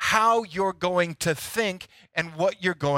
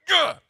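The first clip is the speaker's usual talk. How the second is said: frustrated grunt; 12 semitones higher, 4 dB louder than usual. Retold or imitated. Acts out slamming the golf club.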